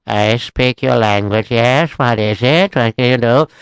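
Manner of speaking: lightly voiced local man; unhurried Jewish local. Local man answers the foreign rabbi, unhurried.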